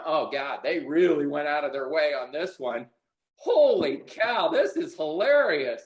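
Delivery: half-amused disbelief, slowing on holy cow; amused at a messy house. Pretend. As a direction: play it as finding the mess funny, not gross. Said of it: "you'd be laughing".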